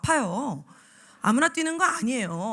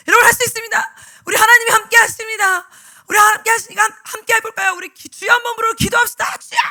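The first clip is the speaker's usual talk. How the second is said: fervent shout; 9 semitones higher, 11 dB louder than usual. Retold or imitated. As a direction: preach it at full force to an empty room. Shouting alone, leading prayer. (음소거된 줌에서 혼자 목청껏 외치는 설교)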